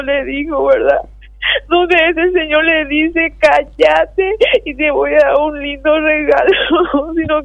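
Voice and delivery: real tearful voice, struggling through the account; tearful breakdown. Real, not acted. Mother recounting her son's abuse, tearfully. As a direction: keep telling it through tears.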